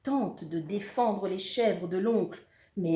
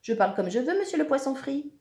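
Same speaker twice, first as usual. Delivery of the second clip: mildly raised cheeky comeback; saucy, louder taunt; insolent retort; 6 semitones higher, 4 dB louder, faster than usual. A narrator's reading. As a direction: answer back with brazen nerve. Réplique insolente au monstre.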